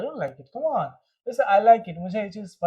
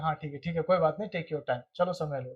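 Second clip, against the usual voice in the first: calm reassurance; 3 semitones lower, 5 dB quieter than usual. Retold or imitated. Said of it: "तब कहते हैं".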